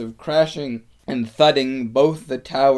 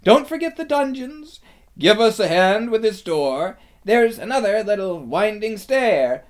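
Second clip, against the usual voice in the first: high, loud, eager calls; excited crying out; 10 semitones higher, 9 dB louder than usual. A narrator's reading. Liberated crowd searching the castle, excited high shouts. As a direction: call out high and urgent, like searchers shouting to one another. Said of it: "everyone's voices crying out at once".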